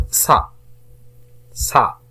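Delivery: "ça" said alone as one syllable; "ça" on its own, then a pause; isolated syllable. Shown as a demonstration. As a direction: sound out "ça" as a separate syllable. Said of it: "تقطيع هذه الكلمات إلى مقاطع صوتية".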